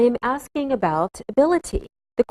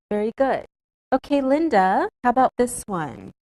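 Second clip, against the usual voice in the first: ordinary talk, nothing marked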